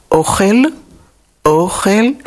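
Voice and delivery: "ochel" with the stress on the first syllable, OCH-el, said up high; Hebrew stress demo. Shown as a demonstration. Teacher shows the stress on OCH-el, meaning food. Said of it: "Je commence avec l'accent ochel".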